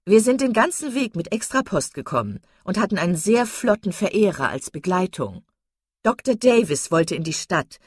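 high, loud, giddy gossip; silly chattering Miss Steele. A narrator's reading. Miss Steele bragging about the doctor, giddy chatter. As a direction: prattle on, pleased with herself.

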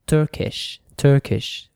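"Turkish" ending in a short ish; "Turkish" said as a teacher's example with ish at the end. Shown as a demonstration. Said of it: "So the sound, the pronunciation is".

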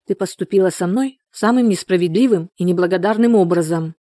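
plain reading voice

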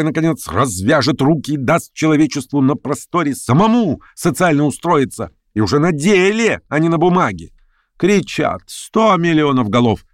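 commanding orator pressing his audience; imperious political agitator. Acted. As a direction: demand a straight answer from the gathering.

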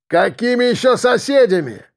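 high booming yell from behind a door. A narrator's reading. Musician behind the door booms at the noisy visitors. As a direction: thunder it back through the door. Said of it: "прогремел оттуда голос".

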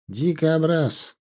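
slow, drawn-out obvious statement; deadpan statement of fact. Acted. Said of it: "констатировал очевидный Алим". (медленная констатация очевидного)

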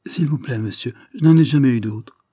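lightly voiced street boy. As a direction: play the ragged boy, humble and wary.

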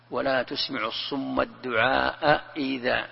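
slow Quranic recitation of الدعاء إذا; slowly recited verse; tajwid recitation. Shown as a demonstration. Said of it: "كيف تقرأها؟".

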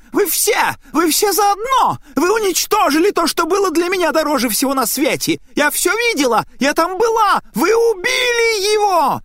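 very high, loud wail of accusation; piercing scream. Acted. Possessed woman screams accusations at everyone in the room. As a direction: shriek the curse at the whole room. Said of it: "вновь завопила пронзительным голосом".

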